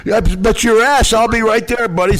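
high, loud, slow challenge down the phone; mock tough comeback. Retelling his reply to the desk clerk, a hammed-up tough-guy comeback. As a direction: bark back like you're ready to fight.

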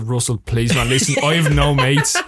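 hammed-up begging; mock pleading. Crewman begging the star for cover, mock pleading. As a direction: plead as if you had no friends at all. Acting out begging Russell for help.

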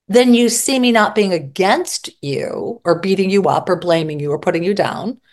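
ordinary talk

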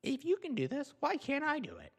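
very high, squeaky mocking whine; mock entitled whine. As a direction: ridicule the protester's complaint. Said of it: "if you sound like that".

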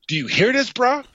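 half-shouting to a partner over the noise; imitating yelling in the ring; mock yell over crowd. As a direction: pitch jumping up on bruh and great. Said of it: "this is how loud it is".

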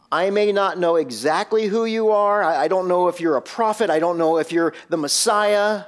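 a hint of a begging father pleading with Jesus; pleading Jairus. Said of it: "It, it's almost as if Jairus said this".

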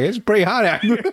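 mock Mexican accent. Teasing Mexican coworkers about the heat, laughing mock accent. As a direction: say it like a sweaty landscaper, amused.

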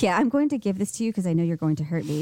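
lightly mocked low, hurried confession; imagined giver confessing. Friend voices the masochist giving the card, low and hurried.

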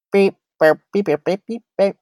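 high-pitched babble of beeps; mock short-circuiting in squeaky beeps; tongue-tied fangirl. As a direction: imitate being starstruck and speechless. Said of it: "when I meet Jordan, I'm like".

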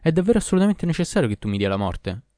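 storyteller voicing a brusque, urgent question; abrupt question. A narrator's reading. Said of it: "E bruscamente chiese all'Ifrit".

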